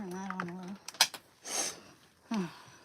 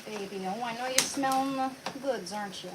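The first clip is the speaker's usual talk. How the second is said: put-on baby talk to dog; 4 semitones higher, 6 dB louder than usual. Teasing the dog with food.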